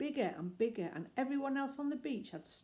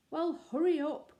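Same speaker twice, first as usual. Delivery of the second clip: raised, eager call to hurry; 9 semitones higher, 7 dB louder than usual. Acted. Judy calls to Paddington on the beach, raised call.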